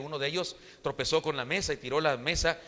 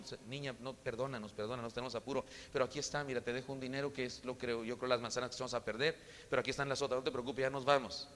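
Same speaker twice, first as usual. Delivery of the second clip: put-on soft, hushed apology to a child; gentle quiet apology; 2 semitones lower, 7 dB quieter than usual. Businessman softly apologizing to the blind girl, hushed. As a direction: speak softly and kindly, as if not to frighten her.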